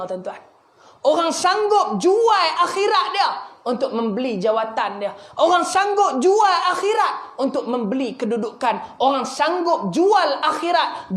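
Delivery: emphatic preaching, pitch surging on key phrases. Acted. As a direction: press each warning home to the congregation.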